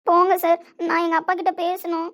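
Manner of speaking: tearful. Acted. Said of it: "ஏம்மா அழுதுட்டே இருக்க".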